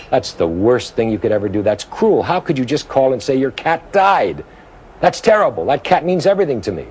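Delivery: hammed-up hurt scolding over the phone, slowing down; upset scolding. Sam upset, scolding friend on phone.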